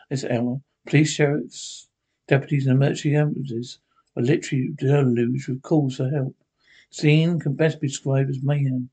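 steady, formal radio announcer read; emergency news bulletin. Acted. Radio announcer warning citizens to stay home, formal bulletin read. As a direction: inform the listeners calmly but urgently.

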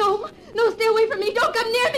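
high, loud, tearful terror; panicked. Acted. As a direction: cry out to keep him back. Wife fending off feared husband.

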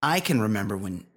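measured podcast commercial delivery; scripted host-read advert; sponsor ad read. Acted. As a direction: read it as a whiskey endorsement. Reads a whiskey sponsor ad.

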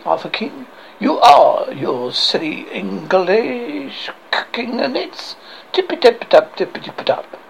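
taunting mock French; outrageous French accent. French guard taunts the English knights, outrageous French accent. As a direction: hurl silly insults in a comic French accent. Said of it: "I have this outrageous accent".

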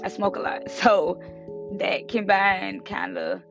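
husky, allergy-worn hoarse voice; rough hoarse voice like a middle-aged man. Real, not acted. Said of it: "the voice of a forty-year-old man".

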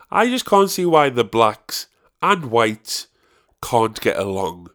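slow, deliberate imitation of nana; quoting nana. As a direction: drag the words out like an elderly nana. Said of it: "and I quote".

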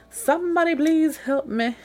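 high, loud pleading cry; desperate plea. Retold or imitated. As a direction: beg everyone for help. Pleading for help in retold story.

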